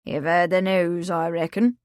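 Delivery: hint of a knowing old farmhand; old countryman. Old Willie hinting at news to the kitchen, lightly rustic. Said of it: "he said".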